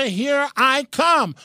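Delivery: mock triumph. Mock-boasting about taking the bar.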